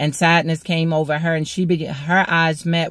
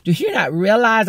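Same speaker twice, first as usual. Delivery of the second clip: higher, incredulous inner voice; dumbfounded disbelief; 5 semitones higher than usual. Retold or imitated. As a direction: ask it like you can't believe your ears. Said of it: "And I was dumbfounded".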